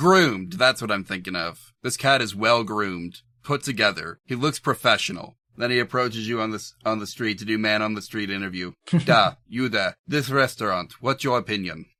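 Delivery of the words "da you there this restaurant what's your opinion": poor, bad, fake, put-on Russian accent. A man stops someone on the street for an interview, in a bad russian accent. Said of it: "I don't do a good Russian accent".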